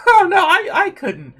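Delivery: high, loud laughing stammer; flustered refusal. Acted. Refusing a massage from a friend, flustered and laughing. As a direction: laugh nervously and protest up high.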